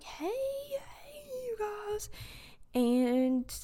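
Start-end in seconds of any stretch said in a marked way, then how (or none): 0.0-2.1 cool greeting. Retold or imitated. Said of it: "You're just like".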